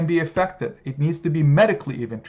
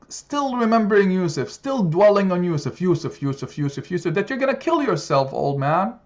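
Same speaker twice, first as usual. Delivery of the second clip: mock guilt trip; 3 semitones higher than usual. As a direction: needle him about Yusuf like scheming sons. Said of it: "They said".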